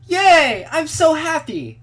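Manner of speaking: put-on high, excited bubbly girl. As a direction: squeal with joy like a girl. Cheerful childhood friend voice.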